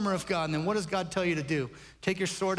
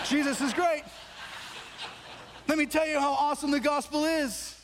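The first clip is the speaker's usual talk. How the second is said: excited bragging; 3 semitones higher than usual. Pretend. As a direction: gush about the gospel with growing joy. Acted answer bragging on Jesus.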